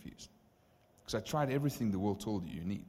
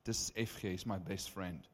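soft prayer; 5 dB quieter than usual. Retold or imitated. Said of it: "So I just pray".

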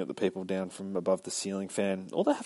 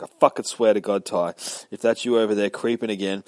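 louder, fast, angry yell at a creeper; 6 dB louder than usual. Retold or imitated. Tandy yells at Ty hiding in the bushes, loud and fast. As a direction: snap it out like she caught him. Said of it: "She starts screaming at him".

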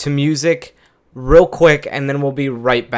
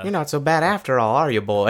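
puppy voice; 3 semitones higher, faster than usual. Acted. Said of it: "puppy animal voice".

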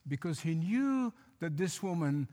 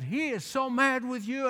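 raised mock-indignant protest; imitating angry caller; 5 semitones higher than usual. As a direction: replay her heated insistence. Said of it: "And she said".

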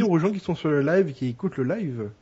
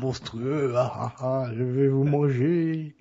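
slow, lightly growled monster. Acted. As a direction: play a hammy monster. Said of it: "le monstrueux Chocoman". (voix de monstre à peine jouée)

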